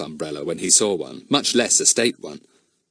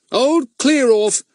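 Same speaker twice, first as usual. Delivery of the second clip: mocking Goon; 6 dB louder, slower than usual. Fatty mimics Goon's catchphrase.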